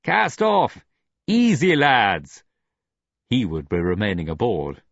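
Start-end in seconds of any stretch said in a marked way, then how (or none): 0.0-2.4 high, loud shouted order; shouting. A narrator's reading. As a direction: bellow it across the deck. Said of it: "He heard Tinker shout".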